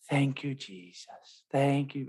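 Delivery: slow, drawn-out Jamaican accent, lightly imitated; a hint of a mother's Jamaican accent, slow. Priest imitating a mother hearing her baby's heartbeat, Jamaican accent. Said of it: "with that Jamaican accent".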